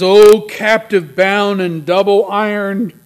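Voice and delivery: loud theatrical ghostly cry; crying phantom. Acted. Ghost in Christmas Carol addresses the captive, loud phantom cry. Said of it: "cried the phantom".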